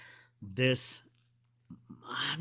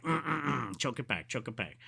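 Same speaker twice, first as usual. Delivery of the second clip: re-enacted fight against crying, trailing softer; holding back tears; 3 dB quieter than usual. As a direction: mime choking back tears under your breath. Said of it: "I was crying. Like, it really just".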